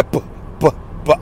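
soft voiceless buh pops imitating mic plosives; mic pop noises. Podcaster to listeners, mimicking announcers' mic pops with soft puffs. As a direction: puff out little popping p sounds. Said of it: "I mean, I can really hear".

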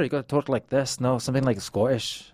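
tentative go at a Scottish accent; attempted Scottish accent. Shown as a demonstration. Guest tries one on the host's request, attempted Scottish accent. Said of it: "Can you do a Scottish accent?".

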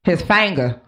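"finger" with a twangy hard R; hard Indiana R. Retold or imitated. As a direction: lightly imitate a Midwestern grandfather saying "finger". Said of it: "his R's were hard".

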